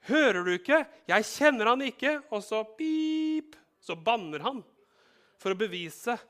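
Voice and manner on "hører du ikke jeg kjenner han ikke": loud, high snapping denial; angry denial. Acted. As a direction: cut her off, fed up. Peter denies angrily. (sint, høy benektelse)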